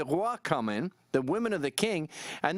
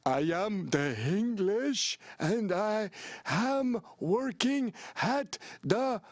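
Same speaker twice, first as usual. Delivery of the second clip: put-on very slow, laboured English in a thick French accent; mock French speaker struggling through English word by word; 4 semitones higher, much slower than usual. French speaker proving their English for a government job, thick French accent. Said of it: "speak the worst English on earth".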